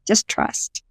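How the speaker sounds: a soft whispered echo of her own advice. Retold or imitated. Telling herself to trust the voices, whispered. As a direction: breathe it out as a whisper, almost to yourself. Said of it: "I just thought to myself".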